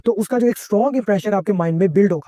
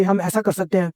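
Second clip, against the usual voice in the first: suggesting tone. Shown as a demonstration. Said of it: "जो suggesting tone होती है".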